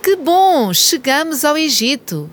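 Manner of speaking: high, thrilled arrival; delighted, way up high; excited cheer. Acted.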